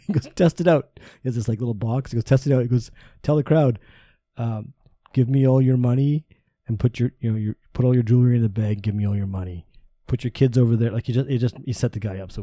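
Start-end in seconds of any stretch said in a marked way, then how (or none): 0.3-0.9 mock deep voice. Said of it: "this deep voice". 2.2-2.6 mock deep voice. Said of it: "this deep voice". 3.2-10.9 mock Bane voice. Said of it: "he sounds like, you know, Bane from".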